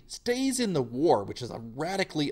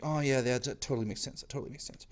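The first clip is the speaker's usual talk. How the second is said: fading to a soft whisper; sheepish agreement; 5 dB quieter, much faster than usual. Retold or imitated. Tsar humoring the new government, quiet and fading. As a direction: mumble it away, sheepishly. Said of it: "he's like".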